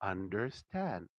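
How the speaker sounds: "understand" drawn out slowly and stressed; slow emphasis. Shown as a demonstration. Teacher stressing the key word to the student. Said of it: "If you understand the word".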